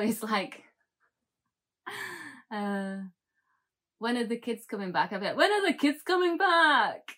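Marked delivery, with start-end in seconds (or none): 5.4-7.1 put-on high, loud caricature Scottish accent; exaggerated Scottish accent. Wife mimicking her Scottish husband, exaggerated Scottish accent. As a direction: parrot it back in silly, over-the-top Scottish. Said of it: "reply back in my own Scottish accent".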